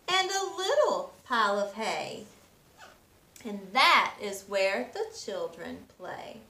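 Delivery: gentle rhythmic read-aloud; storybook reading. A narrator's reading. Teacher reading a picture book to children, gentle storytelling. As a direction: read the rhymes to little ones.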